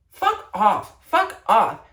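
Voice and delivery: loud high mock yell; yelling fuck off. Telling promposal couples to get lost, loud and high. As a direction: snap it out at the couple. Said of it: "I'm immediately like".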